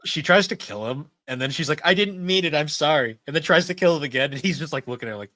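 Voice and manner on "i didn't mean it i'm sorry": high, hammed-up sorry; mock girly apology. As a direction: squeak out a fake apology. Isol fake apology.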